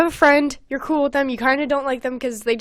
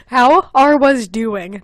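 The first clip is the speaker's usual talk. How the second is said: put-on German accent; 5 dB louder, much slower than usual. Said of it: "is German".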